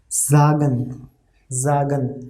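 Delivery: sagen said zagen with a voiced z; German pronunciation demo. Shown as a demonstration. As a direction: say sagen as zah-gen. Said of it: "now let's take examples".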